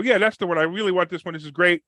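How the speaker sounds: keen, upbeat retold customer; eager buyer. Retelling himself to a car salesman, eager buyer. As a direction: act out mild excitement over a purchase.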